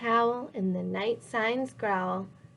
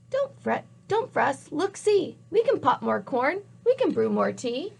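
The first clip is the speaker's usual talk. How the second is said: soothing mouse voice; 3 semitones higher than usual. Acted. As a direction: squeak it kindly. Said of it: "Mouse squeaks".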